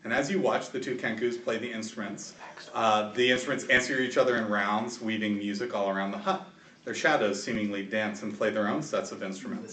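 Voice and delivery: measured game master storytelling voice; scene narration. A narrator's reading. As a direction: set the scene for the players.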